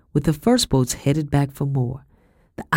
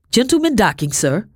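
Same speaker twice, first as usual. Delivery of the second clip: soldier's high call across the wharf; cried out; 7 semitones higher, 3 dB louder than usual. A narrator's reading. Soldier on the wharf calling to his captain, loud. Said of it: "cried a soldier on the wharf".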